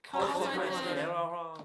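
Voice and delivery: Consequences stretched very slowly with a laugh; slowly drawn out. Acted. Repeating words for the class.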